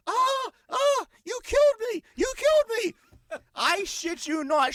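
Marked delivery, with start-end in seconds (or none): 0.1-3.4 high, loud, drawn-out fake death cry; shrieking Karen playing victim on the ground; mock dying wail. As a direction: ham it up like a woman faking a fatal injury. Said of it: "starts rolling around, going".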